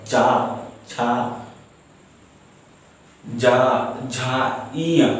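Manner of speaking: चा छा जा झा इया said separately, the last one rising; demonstrated palatal row. Shown as a demonstration. Teacher recites the palatal row to the class. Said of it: "चा बोलने से मेरा जीभ तालु".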